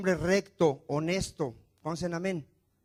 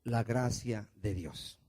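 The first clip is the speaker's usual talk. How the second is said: soft emphatic answer; 6 semitones lower, 6 dB quieter, slower than usual. Shown as a demonstration. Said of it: "Qué vuelve aquí a enfatizar".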